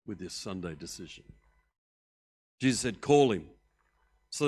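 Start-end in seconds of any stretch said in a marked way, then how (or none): 3.0-3.5 a firm loud order; loud command. Acted. Jesus calling out loudly to bring the blind man over. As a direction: call it out loud across a crowd.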